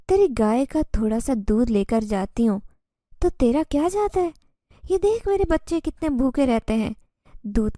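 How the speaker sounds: lightly voiced jinn woman, calm and pleading; strange tone. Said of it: "وہ عجیب لہجے میں بول رہی تھی".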